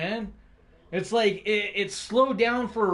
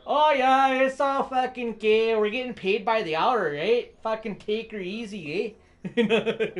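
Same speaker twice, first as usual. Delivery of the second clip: mocking lazy worker; 4 semitones higher, 3 dB louder than usual. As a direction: ham up a slacker worker who doesn't care. Mocking lazy city road workers.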